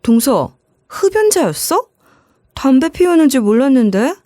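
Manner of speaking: startled, rising pitch on the question; shocked to find the sister-in-law smoking; surprised question. Retold or imitated. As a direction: ask it as if caught off guard. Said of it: "깜짝 놀라 이렇게 물어봤죠".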